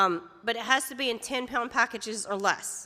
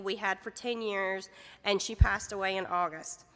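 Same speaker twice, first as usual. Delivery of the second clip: holding back tears; 3 semitones lower, 4 dB quieter than usual. Real, not acted. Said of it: "I'm gonna try not to cry".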